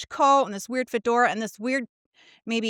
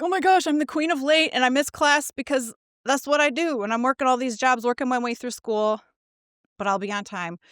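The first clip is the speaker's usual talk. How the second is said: eager self-quote. Retold or imitated. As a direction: gush about being the queen of late. Retelling her own eager promise.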